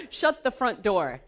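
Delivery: loud, slow, punching shut; loud exclamation. Shown as a demonstration. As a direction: bark out shut like mock disbelief. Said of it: "that's what I was gonna say".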